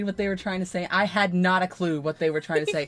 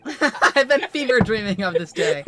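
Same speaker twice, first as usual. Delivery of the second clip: louder, laughing through "fever dreaming"; laughing misread; 7 dB louder than usual. Shown as a demonstration. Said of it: "I read that as fever".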